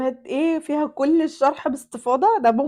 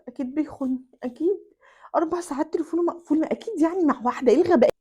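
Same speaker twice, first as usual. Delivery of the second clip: jealous outburst; 4 semitones higher, faster than usual. Acted. الزوجة الغيورة تنفعل على زوجها.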